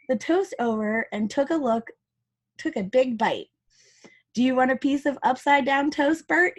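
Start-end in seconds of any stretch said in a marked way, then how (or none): 4.3-6.6 rising, cheeky offer; playful Ernie. Acted. Ernie offering Bert upside-down toast, cheeky. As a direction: offer it with a grin. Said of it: "he asked".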